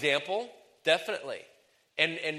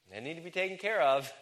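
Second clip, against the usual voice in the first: higher line with CARE lifted; varied inflection; 4 semitones higher than usual. Shown as a demonstration. Preacher showing ladies another inflection, higher on CARE. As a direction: pitch it up and stress CARE. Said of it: "use the inflection of your voice".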